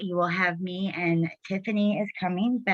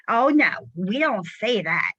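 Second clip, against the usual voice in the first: louder, higher mock reprimand; retold emphatic scolding; 4 semitones higher, 4 dB louder than usual. Retelling how a mentor came out flying, mock scolding. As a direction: imitate her jumping in to scold. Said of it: "she came out flying".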